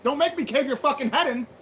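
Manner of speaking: mock yell to scare him off; sneering threat, voice up high. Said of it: "I was like".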